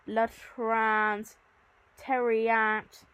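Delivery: "latrans" and "teriat" drawn out slowly; growl-like sound play. Shown as a demonstration. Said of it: "imitates the growling of Cerberus".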